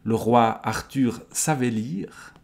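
projected, slow reading of the line; unhurried storyteller's delivery; story narration. A narrator's reading. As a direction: read it out as part of the tale. Reading, before commenting on it.

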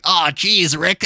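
high-pitched cartoon impression of a friend; Morty. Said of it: "Bro sounded like Morty".

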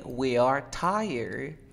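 slow, stretched "We are tired" for repeating; drawn-out demonstration of "We are tired"; teacher model. Shown as a demonstration. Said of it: "Ahora di".

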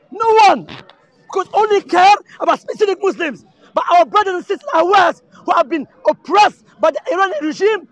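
loud, heated, building to a shout. Real, not acted. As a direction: call it out to the whole crowd. Passionate rant about Ahwaz.

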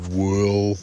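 drawn-out frog "well"; scratchy frog. Acted. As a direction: begin slowly as a storybook frog. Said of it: "the frog said".

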